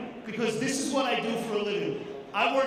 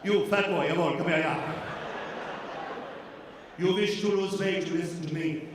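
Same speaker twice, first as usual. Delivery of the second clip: low, soft, sly German-tinged seduction; Haagen-Dazs voice; 3 semitones lower, 6 dB quieter than usual.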